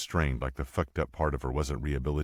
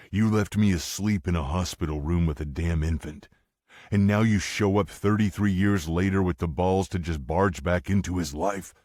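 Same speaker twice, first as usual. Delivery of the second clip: rising, louder furious accusation; angry accusation; 3 semitones higher, 4 dB louder than usual. Acted. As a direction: build the outrage as you step in. Mike confronts his ex.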